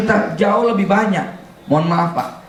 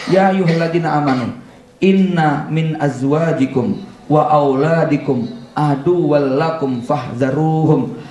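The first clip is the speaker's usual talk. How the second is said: Quran recitation; 2 semitones lower than usual. Acted. Quoting a Quran verse.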